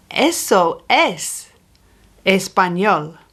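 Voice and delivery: Eso es español said slowly, word by word; slow demo. Shown as a demonstration. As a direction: model Eso es español for learners. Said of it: "The word for this is eso".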